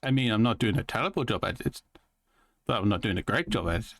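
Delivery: quick-paced put-on twang; fast twangy accent impression; imitated twangy accent. Shown as a demonstration. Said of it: "I'm gonna switch back now".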